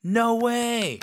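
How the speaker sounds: very high, thrilled no way; excited. Shown as a demonstration. Teacher summing up the excited no way. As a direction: squeal it with excitement.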